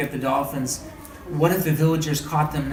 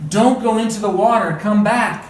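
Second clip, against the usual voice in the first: higher and louder, urgent; alarmed cry; 6 semitones higher, 6 dB louder than usual. A narrator's reading. Mother shouting to her daughter to come back, urgent. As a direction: call her back, frightened. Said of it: "cried her mother".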